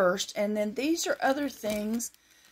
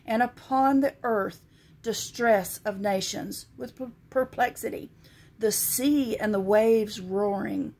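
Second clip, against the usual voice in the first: scripture reading. Acted. Vlogger reading Luke's end-time verses to viewers, solemn scripture reading. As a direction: read the verses like a preacher, weighty and measured. Reads King James scripture aloud.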